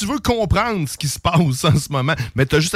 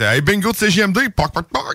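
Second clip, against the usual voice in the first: chicken-man voice; 5 semitones higher than usual. Pretend. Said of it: "ça pourrait être".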